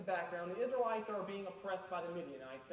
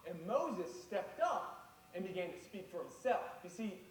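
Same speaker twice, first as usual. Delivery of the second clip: slow emphatic preaching. Real, not acted.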